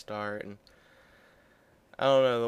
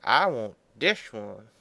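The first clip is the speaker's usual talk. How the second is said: I'm like; 5 dB louder, slower than usual. Retold or imitated. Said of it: "so I was like".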